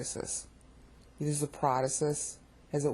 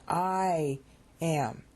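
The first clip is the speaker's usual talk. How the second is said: "I" drawn out and raised, then "am" set apart; stress on I; 2 semitones higher than usual. Shown as a demonstration. Teacher showing God stressing his godness to Haggai, stress on "I". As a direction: lean on a long "I", pause, then "am". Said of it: "See the difference in the stress".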